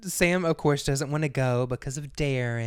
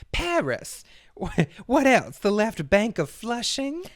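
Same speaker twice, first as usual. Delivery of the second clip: scornful Andora; 10 semitones higher, 5 dB louder than usual. Retold or imitated. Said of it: "She's like".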